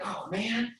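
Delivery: high, loud mock impatience calling a friend; hammed-up begging for a reply; impatient pleading. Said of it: "I'm like".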